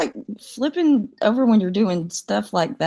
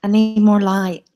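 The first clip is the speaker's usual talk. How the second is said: put-on old lady voice; 5 dB louder, slower than usual. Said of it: "old lady setting".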